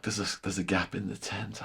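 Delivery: a soft conspiratorial whisper; hushed scheming to himself; whispered plan. Retold or imitated. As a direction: whisper it as if plotting an escape. Retold secret plan to sneak out.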